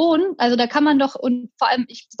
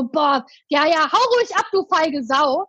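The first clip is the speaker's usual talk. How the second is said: mild mock yell; 2 semitones higher than usual. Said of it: "Der so".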